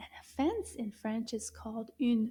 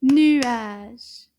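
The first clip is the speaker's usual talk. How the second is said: nuage loud, split into two syllables, rising; syllables shown; 11 dB louder than usual. Shown as a demonstration. Teacher counting syllables in nuage, loud rising. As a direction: clap out nu-age with your voice. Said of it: "Combien de syllabes dans le mot nuage?".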